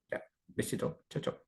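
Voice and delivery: susurrando "ya, besito, chao"; susurro cariñoso. Real, not acted. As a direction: despedirse bajito para no interrumpir la clase. Hushed goodbye to daughter. (a su hija, en plena clase, susurrando la despedida)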